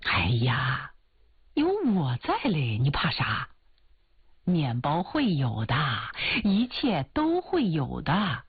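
拿腔拿调地安慰，起伏很大; 像追求者哄心上人宽心; 乐观劝慰的追求者. Acted. Suitor reassures heroine. (拿腔拿调、宽慰人的追求者)

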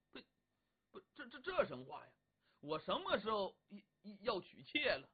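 flustered denial. Acted.

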